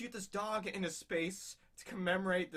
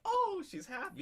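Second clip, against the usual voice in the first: much higher, chirpy mock delight; high happy voice; 12 semitones higher than usual. Girlfriend happily finds the ring, said much higher. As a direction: pipe it up brightly.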